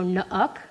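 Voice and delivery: slow "nuck" with a little uh after the n; epenthetic schwa. Shown as a demonstration. Linguist demonstrates word for rotten, schwa inserted in "nuck". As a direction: slip a schwa between the consonants in "nuck". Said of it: "you have to put that little".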